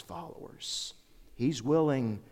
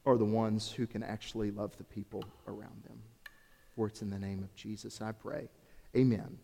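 prayer. Acted. Pastor leading congregation in prayer, earnestly.

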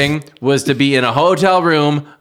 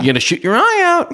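higher put-on movie line voice; movie quote voice. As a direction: recite it like the film character. Quoting famous movie line.

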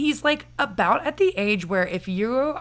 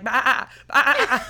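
mock bleat; 3 semitones higher, 4 dB louder than usual. Imitating an actor who doesn't care about looking weird, mock bleating. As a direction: blurt a silly animal noise, laughing. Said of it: "He's just like".

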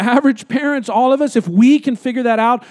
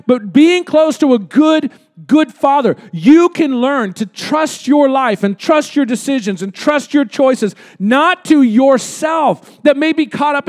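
slow, ringing preacher's emphasis; fervent preaching; 2 semitones higher than usual. Real, not acted. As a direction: lean into each word like a revival sermon. Preaching at full force.

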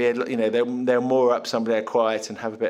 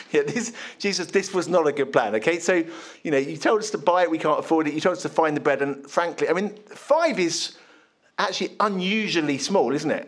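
mild complaint; 4 semitones higher than usual. Acted. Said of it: "Tone of voice?".

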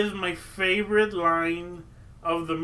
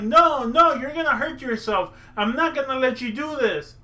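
mocking Gus; 5 semitones higher than usual. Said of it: "Gus is like".

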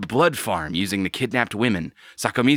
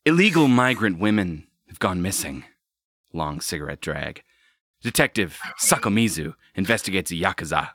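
noir detective; 2 semitones lower than usual. Acted. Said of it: "You have to do it in a noir voice".

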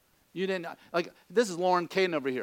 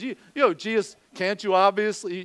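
sarcastic disciple; 2 semitones higher, 4 dB louder than usual. Retold or imitated. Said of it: "you can hear the sarcasm".

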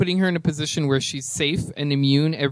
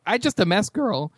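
light impression, raised pitch at the start; a hint of a drag queen catchphrase, dropping on the last word; lightly imitated drag queen; Alexis Mateo; 5 semitones higher than usual. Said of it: "In the voice of Miss Alexis Mateo".

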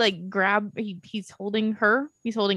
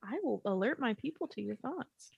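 quiet, otherworldly alien voice; a mock alien threat, said softly; 15 dB quieter than usual. Joking as an alien.

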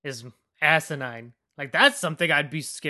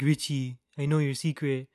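a light politician impersonation; Donald Trump. Retold or imitated. Villain threatening Richie's secret in a lightly imitated politician's voice. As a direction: mimic a politician, only slightly put on. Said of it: "talking like Donald Trump".

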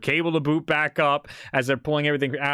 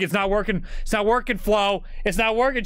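put-on higher, insistent old man repeating himself; grumbling grandpa; 9 semitones higher than usual. Grandpa at home complaining to his wife about the phone, higher-pitched. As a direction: nag like a stubborn grandpa. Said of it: "being like".

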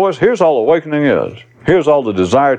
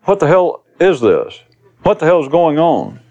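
high, exasperated questioning; inner voice, demanding; 5 semitones higher than usual. Acted. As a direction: demand to know, pitched up. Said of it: "The voice says".

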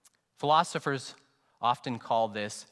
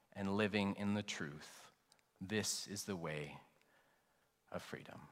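gentle guidance. Acted. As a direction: gently show them the way. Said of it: "It sounds rather like".

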